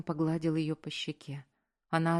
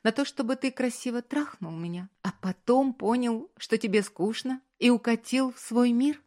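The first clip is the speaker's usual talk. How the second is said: Anya, hurt and rising, higher and louder; a young woman's tearful outburst; 7 semitones higher, 5 dB louder than usual. A narrator's reading. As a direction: voice her climbing toward tears.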